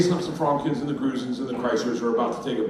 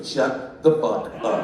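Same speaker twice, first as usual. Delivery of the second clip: wife's rebuke; 4 semitones lower, slower than usual. Acted. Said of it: "She goes".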